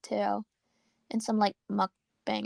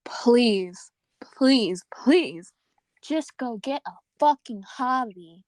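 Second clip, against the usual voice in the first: exasperated plea; 2 semitones higher, 6 dB louder, much slower than usual. Real, not acted. Exasperated plea to obsessed people.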